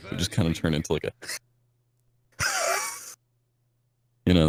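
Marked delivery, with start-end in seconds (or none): 2.4-2.9 put-on high wheezy old man laugh; old man wheeze laugh. Shown as a demonstration. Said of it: "that kinda, like, wheezing".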